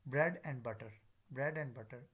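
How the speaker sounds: unstressed "and" between "bread" and "butter"; weak form of "and". Shown as a demonstration. Teacher giving a phrase example, weak "and". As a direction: stress "bread", slip "and" in lightly. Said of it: "weak form".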